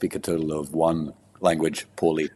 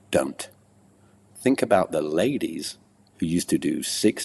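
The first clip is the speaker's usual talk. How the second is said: poem recital; 2 semitones higher than usual. Acted. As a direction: recite it like a performance poet, pausing between phrases. Recites his poem on racing.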